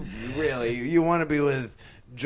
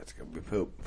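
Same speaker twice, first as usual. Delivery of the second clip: soft whisper; 7 semitones lower, 7 dB quieter, faster than usual. Real, not acted. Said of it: "Why are we whispering?".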